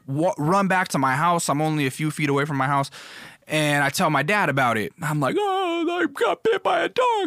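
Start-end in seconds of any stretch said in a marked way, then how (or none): 5.4-7.2 put-on much higher, crying little boy; imitating a small child wailing to dad; little kid voice. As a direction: squeal it like a hurt six-year-old. Six-year-old self telling dad.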